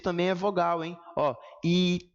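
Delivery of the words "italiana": separação silábica. Shown as a demonstration. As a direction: break italiana into five spaced syllables. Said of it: "tem um som de respiração pra cada um". (silabando, um fôlego por sílaba)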